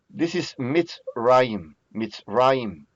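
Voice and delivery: Mitzrayim slowed, mits-RA-yim with a long final m; slow Hebrew demo. Shown as a demonstration. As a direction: spell out Mitzrayim slowly. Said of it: "the sound is not very similar".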